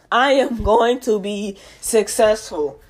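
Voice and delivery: "I am going to be successful" said slowly, every word weighted; slow solemn vow. Real, not acted. Podcaster vowing to listeners, slow and solemn. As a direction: declare it slowly like an oath. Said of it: "I said this on my podcast".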